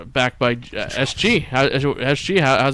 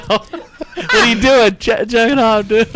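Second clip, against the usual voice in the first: hammed-up caught voice; 6 semitones higher, 3 dB louder than usual. Acting out roommate walking in, high mock voice. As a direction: ham up the shock. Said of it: "acting out being walked in on".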